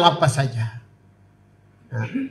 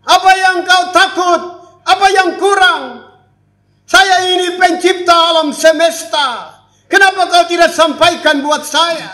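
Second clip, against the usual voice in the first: God speaking; 8 semitones higher than usual. Acted. God voiced questioning child.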